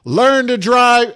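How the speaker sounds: furious high scream, slow and drawn out. Retold or imitated. Scolding an old driver who backed up: full scream. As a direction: bellow it at the driver. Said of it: "I just started screaming".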